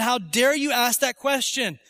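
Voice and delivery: mildly imitated angry teacher; mad teacher. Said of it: "the teacher got mad at him".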